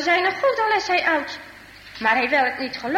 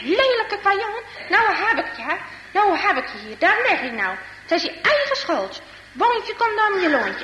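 higher-pitched storybook scolding; kwade uitroep; 6 semitones higher than usual. Acted. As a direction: act a mildly angry old man telling off a boy. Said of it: "wordt hij weer zo kwaad". (boze, bestraffende uitroep)

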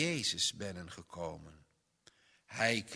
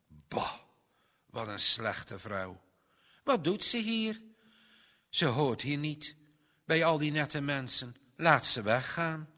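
scornful guests; 2 semitones higher, 4 dB louder than usual. Acted. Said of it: "Ze zetten allemaal een boos gezicht".

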